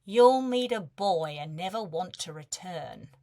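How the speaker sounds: a touch of bitter warning; resentful mother. A narrator's reading. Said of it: "the hint of resentment when she said".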